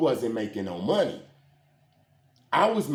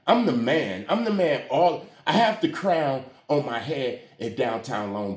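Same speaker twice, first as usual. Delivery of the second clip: boastful bragging. Retold or imitated. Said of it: "So I'm like".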